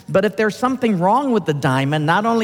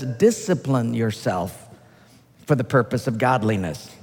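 slow scripture reading; 6 semitones lower than usual. Shown as a demonstration. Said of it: "reading scripture".

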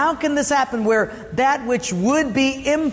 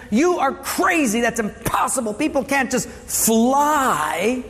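a hint of an old-timer scoffing, higher; lightly voiced time traveler; 3 semitones higher than usual. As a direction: scoff like a man from the eighteen hundreds. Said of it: "This guy would say".

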